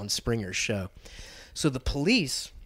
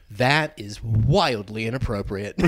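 stern cop; 2 semitones lower than usual. Retold or imitated. Retold cop rebuke.

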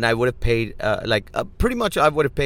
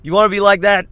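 loud, higher angry outburst at the pushy guys; angry retort; 5 semitones higher, 5 dB louder than usual. Retold or imitated. Fed-up driver to the overcharging tire guys, angry outburst. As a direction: snap back at them, half laughing. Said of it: "Just leaves you angry and going".

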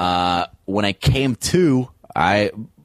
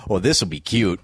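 put-on playful drunk self; 2 semitones lower than usual. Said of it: "That's me going".

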